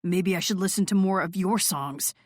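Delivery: dry, mocking tone; sarcastic. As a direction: throw it back at her with sarcasm. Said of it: "he said sarcastically".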